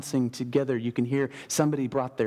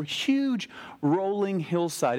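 "huge" drawn out slow and high, falling; huge stretched out; 5 semitones higher, much slower than usual. Shown as a demonstration. Preacher painting the size of the hill for the congregation, slow stress on "huge". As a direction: lean long on "huge" in "huge rolling hillside". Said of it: "get this image in your head".

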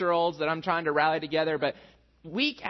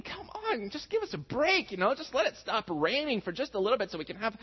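higher, pleading complaint at the rain; exasperated griping at the rain, higher pitched; frustrated; 5 semitones higher than usual. Retold or imitated. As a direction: whine to the sky, fed up and exasperated. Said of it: "I'm just finding myself getting frustrated".

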